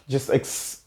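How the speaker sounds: relieved exhale. Real, not acted.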